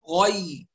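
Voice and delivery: "غي" with a thin, clear "ي"; light yaa. Shown as a demonstration. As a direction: lighten straight after the "غ" of "غي". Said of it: "نحافظ على ترقيقها". ("غي" بياء مرققة)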